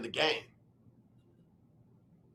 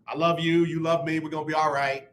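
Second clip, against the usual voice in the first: softer, calm and reassuring; 5 semitones lower, 4 dB quieter than usual. Retold or imitated. To his wife at bedtime, soft calm reassurance. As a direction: settle her down gently. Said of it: "So now it's like".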